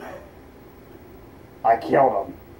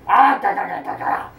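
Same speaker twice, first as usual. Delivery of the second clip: crab voice clacking claws; clacking cartoon crab sounds; lobster voice with claw clacks. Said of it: "You sound like that crab from SpongeBob".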